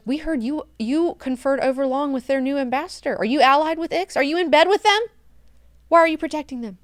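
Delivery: high, pushy accusing voice; mock accusing grill. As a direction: press him hard, pitch up high. Bene Gesserit grilling Leto.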